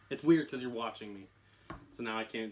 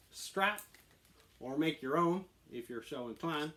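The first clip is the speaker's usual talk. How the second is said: put-on swaggering presenter delivery; on-camera persona pitch; 2 semitones higher than usual. Host pitching holsters to viewers, in persona. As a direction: deliver it like a scripted gun pitch.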